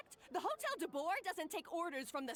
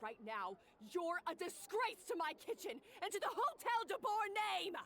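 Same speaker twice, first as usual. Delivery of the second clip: angry scolding; 2 semitones higher than usual. Acted. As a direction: berate her like a furious head chef. Boss berates kitchen worker.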